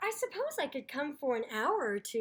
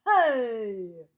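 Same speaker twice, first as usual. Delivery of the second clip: loud low hey of protest; indignant shout; 4 semitones lower, 10 dB louder than usual. Acted. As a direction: cut in, objecting. Snapsy objects loudly.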